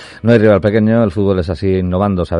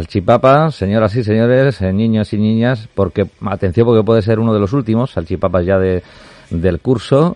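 ringmaster. Pretend. Presenting a segment like a showman.

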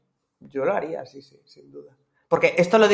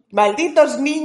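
put-on grumpy old man; 9 semitones higher, slower than usual. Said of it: "la abuela barra bruja que sale con la escoba".

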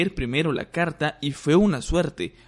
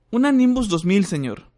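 holding back laughter; 6 semitones higher, 4 dB louder than usual. Acted. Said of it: "tratando de no reír".

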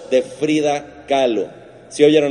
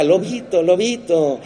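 Little Red Riding Hood; 4 semitones higher, slower than usual. Retold or imitated. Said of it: "Habla como Caperucita Roja".

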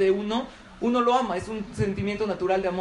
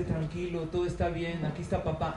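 softer hushed comfort, gently; soft soothing; 2 semitones lower, 5 dB quieter than usual. Retold or imitated. Father calming his crying newborn at the ceremony, soft and soothing. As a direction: lull a crying baby with a murmur.

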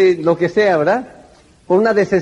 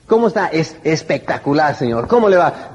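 bright, lively "¿Cómo está?"; enthusiastic greeting; 3 semitones lower than usual. Shown as a demonstration. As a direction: greet like you're glad to see them. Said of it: "no parece estar muy entusiasmado". (saludo animado y entusiasta)

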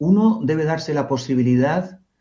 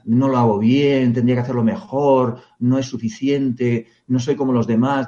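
self-critical inner voice. Retold or imitated. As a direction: voice the harsh inner critic, dragging. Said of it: "diálogo de culpabilidad". (voz interior autocrítica, lenta y baja)

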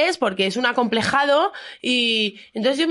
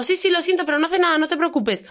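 higher, apologetic and placating; apologetic self quoted; 6 semitones higher than usual. Retold or imitated. To the angry family, placating apology. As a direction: reassure the stranger, a bit higher.

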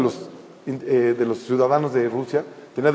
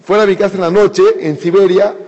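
mock outburst, only slightly raised; retold angry shout; 3 semitones higher than usual. House owner throwing the rabbi out at night, mild retold shouting. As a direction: act out throwing someone out, without a full yell. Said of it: "Le empieza a gritar, pero fuerte".

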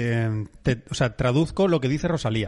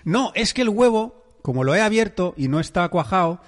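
mum's excuse; 3 semitones higher than usual. Retold or imitated. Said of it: "lo que dijo es".

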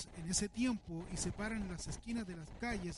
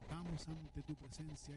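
imitating a put-on holy voice, slow and softer; a lightly faked spiritual voice, softer and slow; mock pious prayer voice; 4 semitones lower, 9 dB quieter, slower than usual. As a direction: ham up a churchy prayer tone, slowly. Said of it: "Cambiaban la voz de tal manera que decían".

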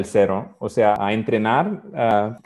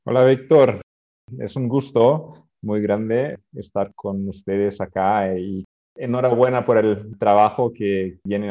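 Portuguese accent. Real, not acted. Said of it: "perdona mi español".

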